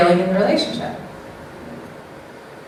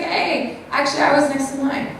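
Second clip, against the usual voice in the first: assertive; 3 semitones higher than usual. Shown as a demonstration. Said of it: "It's just like".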